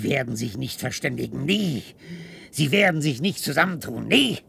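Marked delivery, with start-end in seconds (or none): 1.5-4.4 defiant. Acted. Defiant denial.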